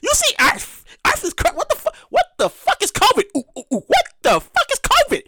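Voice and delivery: high frantic alien voice; mock alien panic. Aliens scramble to escape Earth, high and frantic.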